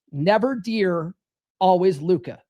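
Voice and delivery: slow, deliberate mantra; drilled catchphrase, unhurried; repeat-after-me slogan. Shown as a demonstration. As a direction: space it out for the group to repeat. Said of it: "Say it with me now".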